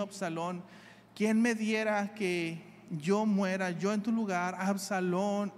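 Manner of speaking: slow, grieving cry of a father for his son; weeping lament. Acted. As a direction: let the grief drag each word. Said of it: "y David lloró, y yendo decía".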